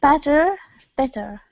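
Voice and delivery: Better with an open e, then bitter with a short i; vowel contrast. Shown as a demonstration. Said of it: "pronounce for me the words better with a B and bitter with an I".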